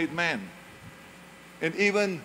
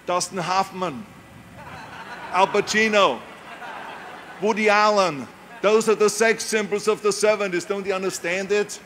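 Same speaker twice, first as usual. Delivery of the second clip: mock insistent agent; 3 semitones higher, 4 dB louder than usual. Agents telling Arnold who the stars are, louder and insistent. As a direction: imitate a pushy agent laying down the law.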